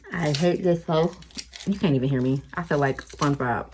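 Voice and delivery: talking with tongue out; tongue sticking out. Real, not acted. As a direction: speak with your tongue stuck out. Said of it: "I'm cutting with my tongue out".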